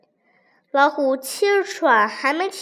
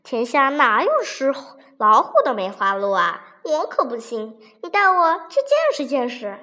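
disbelieving. Acted. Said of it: "不相信地说".

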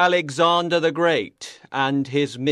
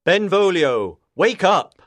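louder call to wake him; 6 dB louder than usual. A narrator's reading. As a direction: call up to the sleeping man. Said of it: "called the emperor".

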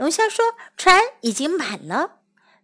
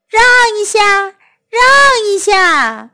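calling out; 6 semitones higher, 5 dB louder than usual. Acted. Voice calling from the water.

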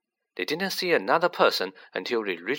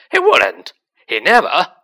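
much louder desperate shout; roaring; 5 semitones higher, 11 dB louder than usual. A narrator's reading. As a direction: bellow it, voice breaking. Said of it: "roared the boy".

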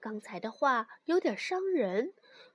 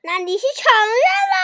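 fast, loud furious demand; 9 semitones higher, 13 dB louder, much faster than usual. Acted. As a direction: snap the question in rage. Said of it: "蹦蹦彻底愤怒了".

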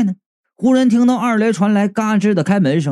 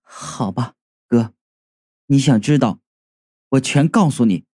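a dead brother giving in, low and hollow; low ghostly confession; 5 semitones lower than usual. Acted. (低沉空洞的鬼魂声音，缓缓说出)

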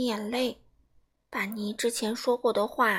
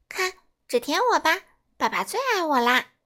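proud; 4 semitones higher, 5 dB louder than usual. Acted. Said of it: "尼骄傲地说".

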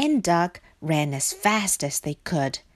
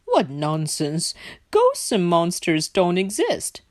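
dismissive Pig. Acted. Pig laughs off their fear.

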